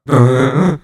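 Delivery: loud imitated crowd hum. The crowd's chant builds, loud imitated hum. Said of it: "And it's getting louder".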